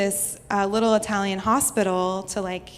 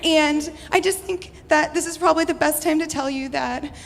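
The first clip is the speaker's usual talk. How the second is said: frantic confession; 5 semitones higher than usual. Retold or imitated. Panicked phone call to mom.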